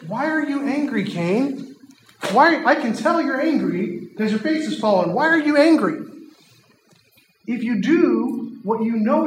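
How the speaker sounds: gentle God. Acted. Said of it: "he's offering an olive branch".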